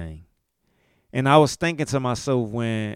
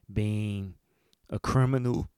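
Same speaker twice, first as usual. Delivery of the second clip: words pushed out through a burp; 5 dB quieter than usual. Real, not acted. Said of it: "That's burp number four".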